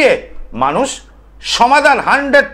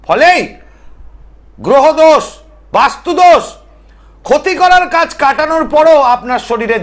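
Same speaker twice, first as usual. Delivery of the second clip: raised, insistent televangelist-style delivery; emphatic oratory; 8 semitones higher, 3 dB louder than usual. Real, not acted. Tantric listing viewers' troubles on live TV, emphatic oratory. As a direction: list each hardship in a high, forceful voice.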